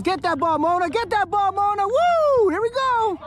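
high sideline calls to players; yelling from the sidelines. Real, not acted. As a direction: call out to the field.

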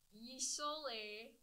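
lightly faked Canadian; terrible Canadian accent. Shown as a demonstration. Showing friends her accents, terrible Canadian accent. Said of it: "my terrible Canadian accent".

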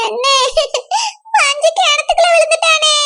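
tearful, sobbing report; crying. Acted. Woman telling Manju's uncle she fell, crying. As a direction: break the bad news through sobs. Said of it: "எதுக்குமா இப்படி அழுதுட்டு வரா?".

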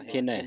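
ਖਿਣੈ ending in an open "ai"; open final vowel. Shown as a demonstration. Teacher points out the vowel sign, ਖਿਣੈ with open "ai". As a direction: say ਖਿਣੈ as "khinai". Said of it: "ਨੰਨੇ ਦਲਾਵਾਂ ਲੱਗੀਆਂ".

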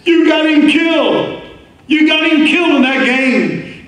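a grieving mother lashing out, imitated; cursing accusation. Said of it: "she would curse them and slap them".

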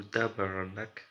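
put-on "tabarnak" slowly drawn out in a Québécois accent; mock Québécois accent with a slow "tabarnak"; slow Québécois swear. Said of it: "Je sais pas faire l'accent québécois de ouf".

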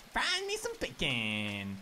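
very low, slow joke voice; deep voice. Pretend. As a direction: drop the voice way down, slowly. Joke about dead pigs.

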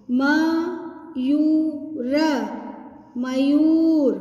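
syllable by syllable, then blended; sounding out words. Shown as a demonstration. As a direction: sound out each syllable slowly. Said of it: "लंबा खींचना है".

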